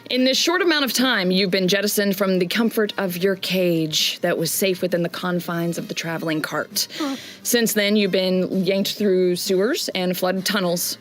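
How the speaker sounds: measured scene-setting narrator voice; story narration. Acted. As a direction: paint the city at sunset for the players. GM narrates the character's backstory.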